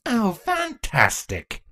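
slow, dry and unimpressed; deadpan. Acted. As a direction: drag it out with no enthusiasm.

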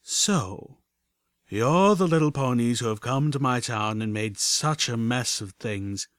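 lightly voiced rumbling villain; a hint of menacing, rumbling authority; low, deep voice. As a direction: confront intruders as a deep-voiced boss. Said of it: "A voice, low and deep".

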